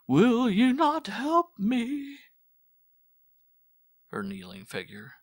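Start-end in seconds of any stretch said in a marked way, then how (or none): 0.1-2.2 much higher, very slow, leaning on "not"; desperate slowed plea. Acted. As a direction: drag out "not" in despair. Repeated plea after calling God.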